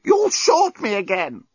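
high, slow strangled robot protest; choking robot. A narrator's reading. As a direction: squeeze out each word as a throttled robot. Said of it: "choked the despot".

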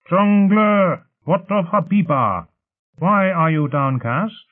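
high, slow, drawn-out anxious questioning; anxious calling. A narrator's reading. The elite question the downcast storyteller, anxious calling. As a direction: call out high and urgent, stretching the words.

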